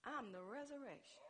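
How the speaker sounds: soft, measured Jesus quote; calm. Acted. Preacher voicing Jesus answering Martha, calm and soft. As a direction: say it quietly, without pushing. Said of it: "I believe Jesus said calmly".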